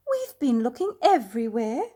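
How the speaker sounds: whispered relief; mother whispering to the lost bear; hushed. A narrator's reading. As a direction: breathe it out in a whisper. Mrs Brown relieved and startled.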